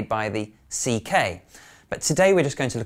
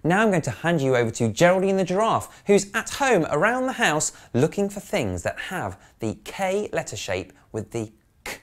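higher, brisk build-up to the puppet; excited; 7 semitones higher than usual. Real, not acted. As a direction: announce the giraffe with a rising thrill. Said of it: "bright teacher handing over to puppet".

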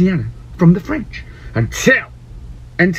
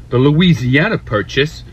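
lower, slow mock American accent; 5 semitones lower than usual. Shown as a demonstration. British host tries an American accent on the name. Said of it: "maybe not in an American accent".

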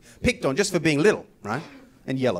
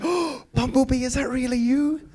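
higher, slow and amazed; excited little boy; 8 semitones higher, slower than usual. Retold or imitated. Boy to the robot on the phone, higher and amazed. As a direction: gasp it out like a thrilled six-year-old. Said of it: "I was like".

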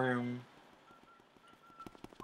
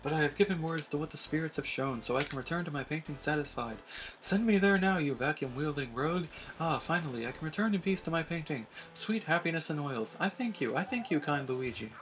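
a theatrical medium's voice, a little higher; mystic fortune teller; 5 semitones higher than usual. Acted. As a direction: commune with the spirits in a theatrical way.

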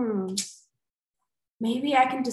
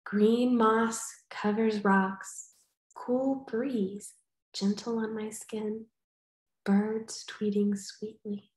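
poem reading; slower than usual. Shown as a demonstration. Teacher reads her finished haiku to children, gently. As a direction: read it gently so they can picture it. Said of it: "All right, close your eyes".

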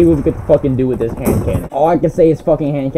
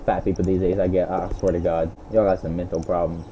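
low muttering; 11 semitones lower, 9 dB quieter than usual. Real, not acted. Grumbling after voice chat fight.

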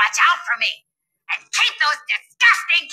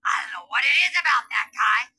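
swooning lunch lady. Acted. Lunch lady swooning over teacher.

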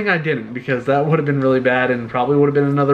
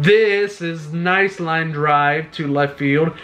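slow, drawn-out line with a faint Russian accent; hint of a Russian accent; accidental Russian accent; slower than usual. Real, not acted. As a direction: slip into a Russian accent without meaning to. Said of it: "That sounded like a Russian accent".

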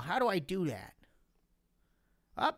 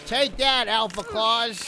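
mock battle cry; 3 semitones higher, 5 dB louder, slower than usual. Attacks the villain in game.

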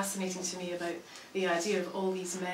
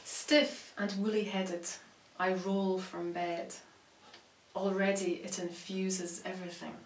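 measured recital with long pauses between phrases; poetry reading. Acted. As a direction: let each image land, then pause. Reads poem about tea.

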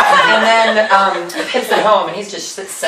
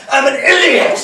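mock outburst; 4 semitones higher than usual. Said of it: "always terrified me every time he did it".

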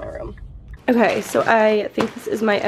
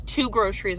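out of breath; 3 semitones lower, 5 dB quieter than usual. Real, not acted. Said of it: "out of breath from carrying those two groceries".

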